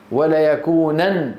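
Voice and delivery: وليكونن drawn out, closing on n without a vowel; light emphatic noon. Shown as a demonstration. Teacher shows the class a light noon, وليكونن ending in n. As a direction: end وليكونن on a closed "nan". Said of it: "خفيفة".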